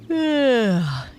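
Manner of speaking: long falling yawn sound; big yawning sigh. Acted. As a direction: let out a lazy yawn. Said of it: "yawned Otto".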